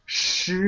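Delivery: "Shi" with a rising second tone. Shown as a demonstration. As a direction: say "Shi" gliding upward like a question. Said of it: "it means it's a rising tone".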